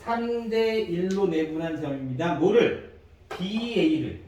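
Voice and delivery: slow, stretched "삼 대 일로", then a punched "뭐를?"; measured recital, asking and answering itself; demonstrated reading. Shown as a demonstration. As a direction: model the reading slowly for a class. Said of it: "어떻게 읽어야 돼?".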